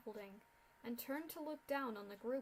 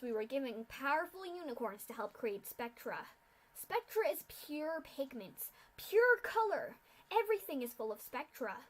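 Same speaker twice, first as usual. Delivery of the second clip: loud villain lecture; 2 semitones higher, 5 dB louder than usual. Acted. Masked official lectures the captives.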